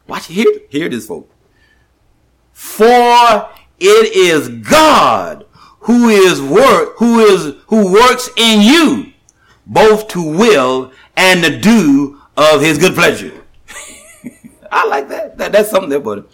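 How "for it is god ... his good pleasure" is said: drawn-out, emphatic preaching read; preacher reads the verse to the congregation, slow and weighty; slow scripture reading. Acted. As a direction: stretch every word of the verse.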